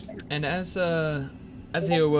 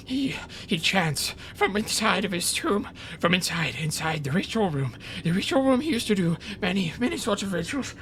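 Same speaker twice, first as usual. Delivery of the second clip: mouse voice; 7 semitones higher than usual. Acted.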